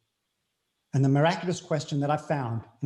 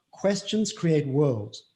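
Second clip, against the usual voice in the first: slow emphasis; much slower than usual. Shown as a demonstration. Repeats the quote for emphasis.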